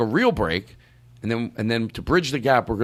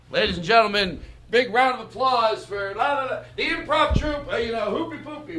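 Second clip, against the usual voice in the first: announcer; 11 semitones higher than usual. Acted. Host announces the improv troupe in a showbiz voice. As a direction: hype up the troupe like an emcee.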